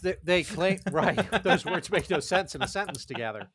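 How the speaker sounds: tipsy, giggling through the words. Real, not acted. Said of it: "I'm a little tipsy now".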